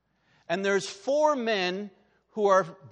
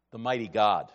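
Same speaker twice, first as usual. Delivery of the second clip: ordinary talk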